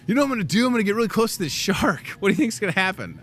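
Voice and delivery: mock daredevil. Mocking shark-show daredevils.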